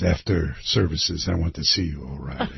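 put-on low, quiet priest with would-be Irish accent; Irish accent sounding Scottish. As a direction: summon him sternly in a Scottish-tinged Irish accent. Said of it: "your Irish accent is Scottish".

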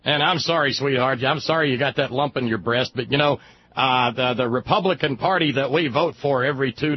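a hint of a smug husband explaining; mock callous dad. Dad voiced talking to wife.

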